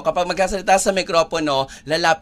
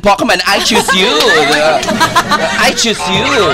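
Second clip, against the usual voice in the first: Pokemon trainer call; 4 dB louder than usual. Retold or imitated. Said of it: "Parang meron na siyang na, Pokemon".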